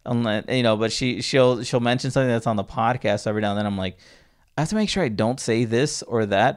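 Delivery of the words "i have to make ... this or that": laughing through the words, higher; breaking into laughter mid-sentence. Real, not acted. Host jokes about his mom hearing the podcast, laughing. Laughing while retelling own worry.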